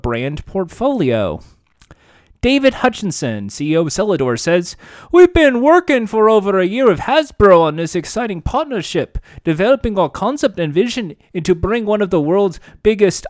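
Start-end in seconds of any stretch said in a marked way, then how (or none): 5.1-13.2 put-on Scottish accent. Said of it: "I don't know why he's doing a Scottish accent".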